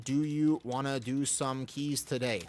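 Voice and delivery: slow and sugary, coaxing a friend into keys; drawn-out friendly invite; honeyed slow request; slow sweet ask. Shown as a demonstration. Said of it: "Like this".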